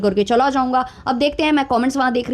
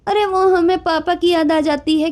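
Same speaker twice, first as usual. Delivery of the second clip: mocking the wife's voice-over; 4 semitones higher than usual. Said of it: "उस पर voice over चल रहा है".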